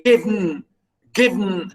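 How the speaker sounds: "given" squeezed into one syllable; run into one syllable. Shown as a demonstration. Teacher showing a poetic exception, "given" said as one syllable. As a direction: say "given" as one beat, swallowing the second vowel. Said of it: "as if it's one syllable".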